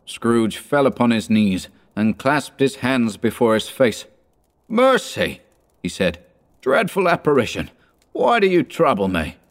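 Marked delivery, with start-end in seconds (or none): 4.7-9.4 high, panicked cry for mercy; terrified plea. A narrator's reading. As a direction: beg in sheer terror. Scrooge terrified on knees.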